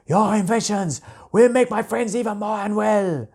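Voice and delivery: a high, hissed threat from the dragon king; menacing dragon king. A narrator's reading. The ice dragon king warns the inventor bears, menacing.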